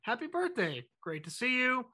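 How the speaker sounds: reply softly and kindly, lightly acted. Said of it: "very kindly says".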